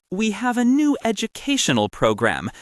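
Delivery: put-on French accent. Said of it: "in this heavy accent".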